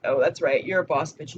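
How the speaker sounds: mock the guys who doubt her; imitating sarcastic dudes. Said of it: "have that sort of sarcasm".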